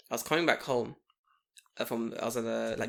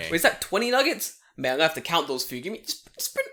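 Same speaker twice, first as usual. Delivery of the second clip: mock cop; 3 semitones higher than usual. Mock cop confiscating nuggets.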